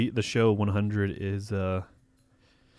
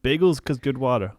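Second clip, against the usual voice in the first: mock Boston accent; 3 semitones higher, 4 dB louder than usual. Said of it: "I'm doing a Boston accent".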